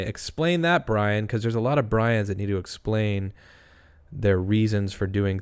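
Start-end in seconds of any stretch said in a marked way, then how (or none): 0.0-1.3 slogan read. Shown as a demonstration. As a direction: announce it like a catchy slogan. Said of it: "we should make shirts that say".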